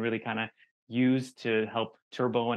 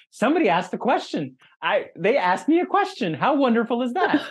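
excited; 10 semitones higher, 6 dB louder than usual. Retold or imitated. Excited retelling of joyful moment.

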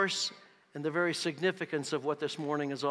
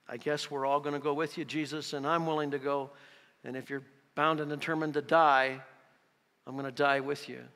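hopeless despair. Acted. Preacher voices Thomas resigned to dying with Jesus, hopeless despair. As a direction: give in to a fate that seems inevitable. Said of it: "It's a statement of hopeless despair".

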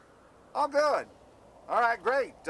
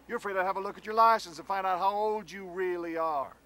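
accusing shout. Acted. Fiancé accusing his bride of hiding her age, shouting.

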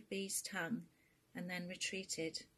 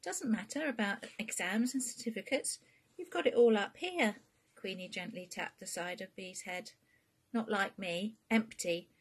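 Queenie; 3 semitones higher, 5 dB louder than usual. Acted. Queenie praises, then mocks herself.

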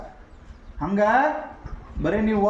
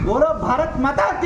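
rallying call; 4 semitones higher, 3 dB louder than usual. Real, not acted. Patriotic call and response.

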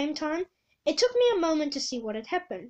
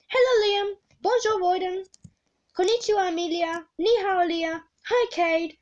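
higher, called-out greetings; cried greetings; 5 semitones higher, 4 dB louder than usual. Acted. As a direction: call out hello to each friend. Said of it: "I cried".

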